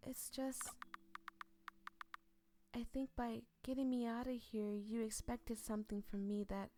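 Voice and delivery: a hint of a timid young man; high-pitched Toffee. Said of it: "Toffee has a high-pitched voice now".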